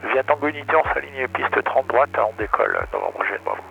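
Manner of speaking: radio readback through the headset; over a pilot headset. Real, not acted.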